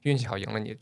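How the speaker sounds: 示范朋友间赢了之后的客套; 压低一点嗓音，连说运气; 故作谦虚. Shown as a demonstration. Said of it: "如果想谦虚，". (轻描淡写地谦让)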